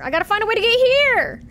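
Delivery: fed-up yell of a lost player; frustrated outburst. Real, not acted. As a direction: blurt it out in exasperation. Lost in game, repeating frustrated.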